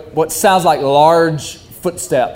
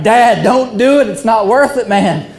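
pleading negotiator; 5 semitones higher than usual. Retold or imitated. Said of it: "And I'm just like".

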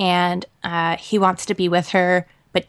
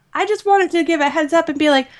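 normal talking voice

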